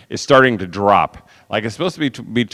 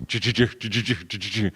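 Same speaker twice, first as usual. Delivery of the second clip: much softer mock engine choo-choo limping along; soft sputter; 2 semitones lower, 12 dB quieter than usual. Describing crawling to the restaurant, soft mock sputter. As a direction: breathe the choos quietly, like a crawling engine. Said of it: "and I'm choo".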